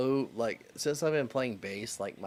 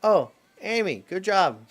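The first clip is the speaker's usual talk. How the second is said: loud praise; 8 semitones higher, 12 dB louder than usual. Real, not acted. Praising wife loudly.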